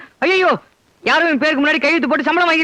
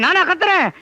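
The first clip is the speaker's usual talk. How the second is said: நானா thrown out higher and harder, falling hard; louder angry denial; 5 semitones higher than usual. Acted. Husband denying he is shouting while shouting louder. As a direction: repeat it, now shouting. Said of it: "திடீர்னு ஏன் இப்படி கத்துறீங்க".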